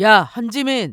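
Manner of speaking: annoyed, angry, irritated, scolding tone. Calling out to the younger sister before getting in the car: shouting angrily. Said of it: "왜 소리 질러?".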